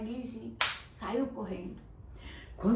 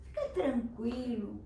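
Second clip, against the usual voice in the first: calm mother. Acted. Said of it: "A mãe falou".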